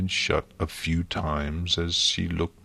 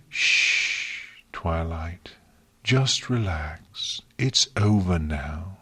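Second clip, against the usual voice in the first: gentle hush, slow and calm; soothing; slower than usual. Acted. Celestia comforting a sobbing Twilight, soothing. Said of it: "Celestia said soothingly".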